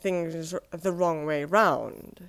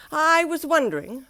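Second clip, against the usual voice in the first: higher, bright hopeful voice; Mister Happy hopefully asking a favour, higher voice; hopeful wondering; 8 semitones higher, 5 dB louder than usual. Acted. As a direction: ask sweetly, testing the idea. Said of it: "wondered Mister Happy".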